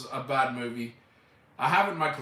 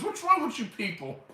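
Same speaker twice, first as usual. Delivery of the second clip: imitating Chop Top; 11 semitones higher than usual. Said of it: "He goes".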